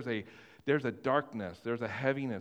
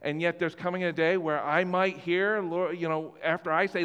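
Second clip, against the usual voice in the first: anxious believer; 3 semitones higher, 4 dB louder than usual. Retold or imitated. Voicing a worried churchgoer.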